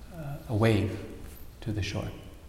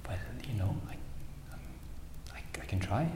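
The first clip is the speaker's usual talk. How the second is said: hesitant sparrow; 10 dB quieter, faster than usual. Acted. Sparrow answers doubting Garuda.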